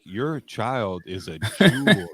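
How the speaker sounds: put-on slow gushing praise of a child; doting parent. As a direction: gush like a charmed parent. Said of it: "that friend's parents are like".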